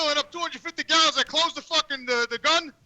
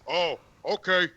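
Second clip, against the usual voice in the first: low, slow acknowledgement; quoted customer; 7 semitones lower, slower than usual. Retold or imitated. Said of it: "he goes".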